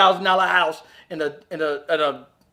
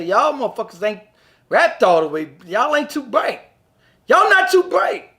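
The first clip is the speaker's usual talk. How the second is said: mocking foreigners; 2 semitones higher than usual. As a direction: tease like an amused outsider. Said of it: "they'll laugh and say".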